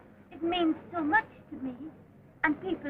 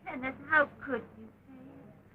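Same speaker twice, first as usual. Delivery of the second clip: tearful; 5 dB quieter than usual. Acted. Hurt woman reproaching him.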